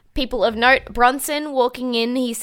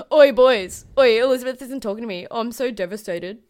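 mocking Sam; 3 dB louder than usual. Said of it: "And he's like".

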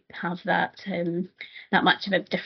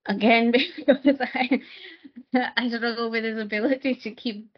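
kind gentle laugh; 3 semitones higher than usual. Real, not acted. Laughing about her long reviews.

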